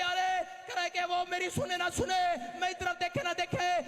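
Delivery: rising, insistent sermon voice; fiery preaching. Acted. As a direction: build the beggar's resolve into a rally cry. Preacher chanting beggar's refrain.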